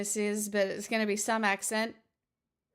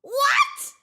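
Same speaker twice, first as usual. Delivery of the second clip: surprised; 9 dB louder than usual. Real, not acted. Startled by surprise donation.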